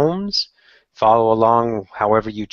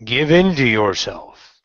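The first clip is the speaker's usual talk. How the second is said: slow, measured meditation voice; short phrases with spacious pauses, sinking at the ends; guided meditation; 3 semitones lower, slower than usual. Acted. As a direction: guide the listener calmly inward.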